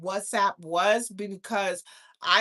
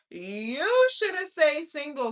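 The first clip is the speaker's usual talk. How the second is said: slow high mocking voice; 6 semitones higher, 5 dB louder, slower than usual. Repeated slower, high voice.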